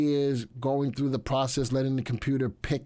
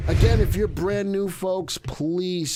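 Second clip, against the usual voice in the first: excited; 6 semitones higher, 6 dB louder, slower than usual. Real, not acted. Energetic channel promo.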